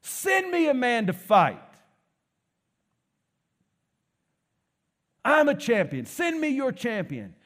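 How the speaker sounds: hammed-up booming Goliath challenge; booming giant. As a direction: boom the challenge across the valley. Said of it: "this booming voice from across the valley".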